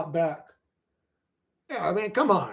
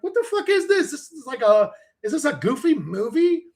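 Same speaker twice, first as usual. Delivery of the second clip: bewildered disbelief; 5 semitones higher than usual. Retold or imitated. Retelling bewildered responders at the scene.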